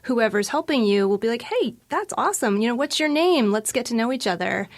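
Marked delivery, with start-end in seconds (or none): 1.4-4.7 lightly acted friendly enthusiasm, pitched up at first; friendly server. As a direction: greet a regular like a welcoming server. Acting a friendly restaurant server.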